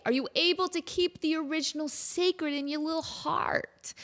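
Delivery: hushed whispered question. Real, not acted. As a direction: lean in and whisper it. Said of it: "whispered question".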